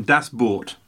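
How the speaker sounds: put-on German accent on the title. Shown as a demonstration. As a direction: say the title in your best mock-German accent. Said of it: "That's my best German accent".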